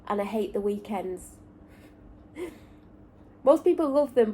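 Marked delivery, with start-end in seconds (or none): 2.4-4.3 a rueful laugh that breaks through, higher and louder. Real, not acted. Vlogger laughs about hating weekends, rueful laugh. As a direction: laugh it off, bitter and amused.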